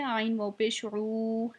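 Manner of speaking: ऊ in आइन वाव पेश ऊ held long; stretched vowel. Shown as a demonstration. Teacher repeating the long ऊ for students, slowly. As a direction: drag out the ऊ slowly. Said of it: "एक अलिफ के बराबर खींच के पढ़ेंगे".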